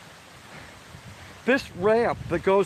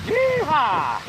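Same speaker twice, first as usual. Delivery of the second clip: excited whoop; 9 semitones higher than usual. Real, not acted. Driving through flood water.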